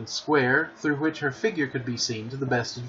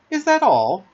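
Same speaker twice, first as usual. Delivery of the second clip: a much higher, louder disbelieving question; surprised; 9 semitones higher, 7 dB louder than usual. A narrator's reading. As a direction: sound amazed that a name could be so short. Wendy surprised by the short name.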